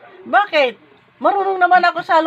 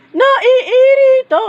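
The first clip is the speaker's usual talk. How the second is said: drawn-out teasing; 9 semitones higher, 6 dB louder, much slower than usual. Acted. Owner teasing the irritated pet.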